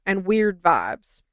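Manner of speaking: slow, scornful "weird vibes"; slow sarcastic drawl. Retold or imitated. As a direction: drag out "weird vibes" mockingly. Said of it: "I was like".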